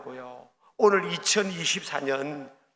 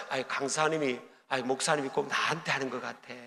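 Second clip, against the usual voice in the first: low, soft grumble of a listener; half to yourself, sure the pastor means you; muttered complaint; 6 semitones lower, 9 dB quieter than usual. Retold or imitated. A congregant grumbling that the sermon targets him, softly.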